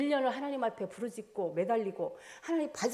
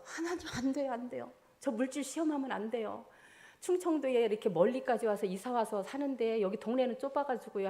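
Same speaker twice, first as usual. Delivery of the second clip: pleading with God; 3 semitones higher than usual. Retold or imitated. Retelling her dream, a woman begs God not to test her, pleading. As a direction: plead desperately not to be tested.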